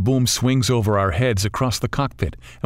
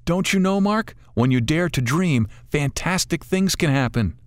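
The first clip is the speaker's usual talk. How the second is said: put-on wise old lady bird, higher voice, gently chiding; a kindly old bird coaxing them to enjoy it; 7 semitones higher than usual. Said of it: "The old bird wisely replies".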